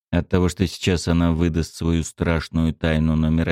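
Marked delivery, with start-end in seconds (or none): none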